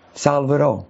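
normal talking voice

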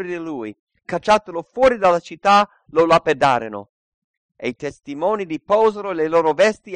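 loud preacher's reading of Acts; dramatic scripture reading. Acted. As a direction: proclaim the passage with fervour. Reads the stoning of Stephen.

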